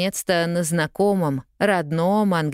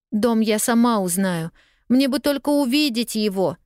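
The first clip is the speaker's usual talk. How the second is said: tearful voice; 7 semitones higher than usual. A narrator's reading. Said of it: "со слезами в голосе ответила Полианна".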